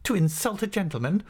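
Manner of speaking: high-pitched, wounded protest; trembling indignation. A narrator's reading. Wronged master accuses pupil of insulting a gentleman, trembling with indignation. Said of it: "with his lip trembling very much".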